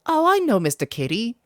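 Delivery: high, bright little fairy cheering. Acted. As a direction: squeak it out like an excited tiny fairy. Fairy P leads Oliver.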